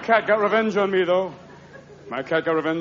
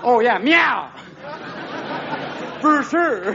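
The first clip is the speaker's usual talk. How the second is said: drugged cat; 8 semitones higher, much slower than usual. Acted. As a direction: play a cat on Valium, pitched up. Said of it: "looking at his paws going".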